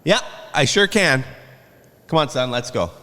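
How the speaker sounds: smug defiant dad; cocky retort, lightly voiced. Father's retort retold.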